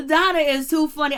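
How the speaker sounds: loud laughing delight. Real, not acted. Vlogger cracking up over Donna, laughing loudly. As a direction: laugh the words out in real amusement.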